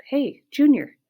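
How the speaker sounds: high, loud call across a crowd; yelled greeting. A narrator's reading. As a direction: holler an eager hello. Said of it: "Berta yells out".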